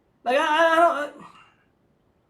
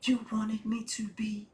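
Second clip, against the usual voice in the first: measured spoken-word parody; mock slam poet. Red-pill poet answering a woman, mock slam-poet delivery. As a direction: drop into a poet's deliberate, phrased cadence. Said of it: "slam poets".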